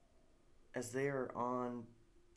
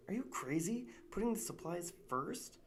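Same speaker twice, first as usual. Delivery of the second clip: hushed disbelief, pitched high; incredulous whisper; 7 semitones higher than usual. Acted. Jasper doubting his friend, in a shocked whisper. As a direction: whisper it like it's madness. Jasper questions risky plan.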